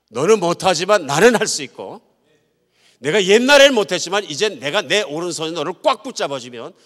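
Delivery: loud, high, impassioned preaching; rousing pulpit declaration; forceful promise. Acted. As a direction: proclaim God's promise at full voice.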